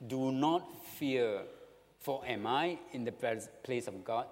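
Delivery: mild, measured comfort; reassuring. Acted. Joseph to his trembling brothers, mildly reassuring. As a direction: reassure them with a slow, deliberate opening. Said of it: "comfort, assurance".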